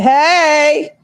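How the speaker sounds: put-on a light take on a toddler's hey; mock little-girl greeting; imitating the baby. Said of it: "She said".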